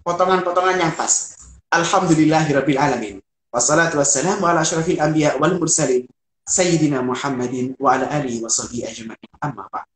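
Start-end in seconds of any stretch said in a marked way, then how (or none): 1.7-9.9 recited opening. Shown as a demonstration. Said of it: "Jangan over ya".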